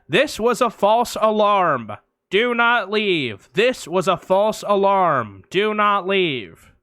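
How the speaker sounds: slow, measured PA announcer; announcement voice. Retold or imitated. Building speakers announcing a false alarm, slow PA voice. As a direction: read it like a tannoy recording. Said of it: "a voice comes on and is like".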